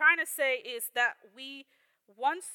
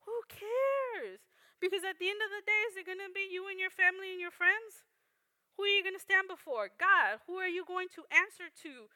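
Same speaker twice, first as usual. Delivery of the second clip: urgent challenge; 6 semitones higher, 3 dB quieter than usual. Real, not acted. Preacher rebuts fearful excuses.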